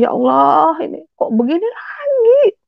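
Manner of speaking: re-enacted tearful wail to God; high-pitched, crying plea of disbelief. Accused wife crying out to God, tearful. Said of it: "Saya nangis Bapak Ibu saat itu".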